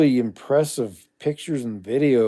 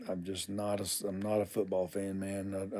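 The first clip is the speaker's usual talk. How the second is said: whisper; 5 semitones lower, 14 dB quieter than usual. Real, not acted. Quiet confessional aside to chat.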